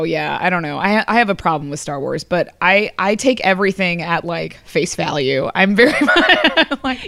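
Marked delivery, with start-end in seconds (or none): 5.5-7.1 a real catch of tears in a raised voice; tearful. Real, not acted. Guest tearing up about Star Wars, tearful and raised. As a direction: emotion welling up mid-sentence. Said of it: "You're, like, crying right now".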